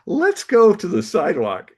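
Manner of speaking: the author hustling his fan out of his wife's earshot; Bradbury's brisk command. Retold or imitated. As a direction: herd the young man away, decisive. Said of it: "and he looks at me and he goes".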